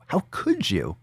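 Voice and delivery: whispered fake betrayal; mock-appalled whisper. Podcaster pretending to scold the fatphobic, wounded mock whisper.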